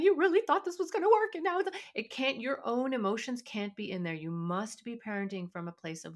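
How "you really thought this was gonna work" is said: high, loud, fast exasperated jab; mock panicked parent snapping back; panicky parent. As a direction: blurt it at the kid in a panic. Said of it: "Now you're not, uh, panicking. You're not going".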